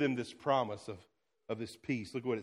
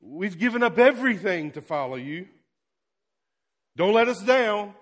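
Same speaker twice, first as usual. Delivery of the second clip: apprehensive plea; 3 semitones higher, 5 dB louder than usual. Retold or imitated. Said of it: "a little bit of apprehension".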